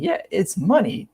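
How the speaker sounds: mocking repeat, slow and high; sarcastic echo. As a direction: throw his own words back at him, slowly. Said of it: "I'm like".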